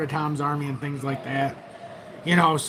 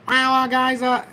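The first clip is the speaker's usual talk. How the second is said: higher, hesitant mock-gloomy opener; gloomy host voice; 7 semitones higher, slower than usual. Shown as a demonstration. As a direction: play the host on a bad bear day. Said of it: "I don't have to talk like that".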